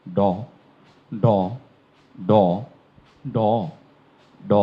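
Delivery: ড struck hard with the tongue curled back; ড demo. Shown as a demonstration. Teacher showing where ড is made. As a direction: curl the tongue back and hit ড. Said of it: "যেখান থেকে ড উচ্চারণ করেন".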